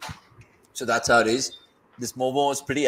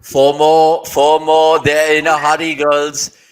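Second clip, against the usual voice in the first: loud excited boundary call; 11 dB louder, slower than usual. Real, not acted. Calling a boundary live.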